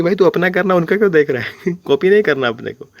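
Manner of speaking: lightly acted scolding; mock scolding. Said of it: "बंदी ने तब भी टोक दिया कि".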